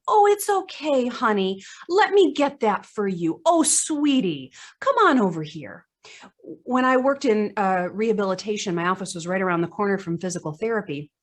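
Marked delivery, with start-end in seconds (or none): 0.1-5.9 put-on sing-song high, syrupy talk to an old woman; elderspeak. Speaker mimics staff cooing at a woman in a wheelchair, sugary elderspeak. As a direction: coo at her like a small child. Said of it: "we all know elders speak when we hear it".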